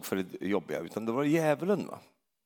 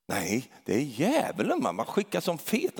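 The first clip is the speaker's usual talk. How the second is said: mock bold believer; 3 semitones higher than usual. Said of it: "riktigt så här frimodig, var han".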